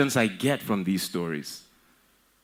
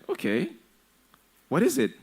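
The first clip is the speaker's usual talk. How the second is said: eager, rising higher on the question; excited; 10 semitones higher than usual. Acted. Parent greeting the son's news, excited and eager. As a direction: lean in, keen to hear. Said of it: "you're, like, excited".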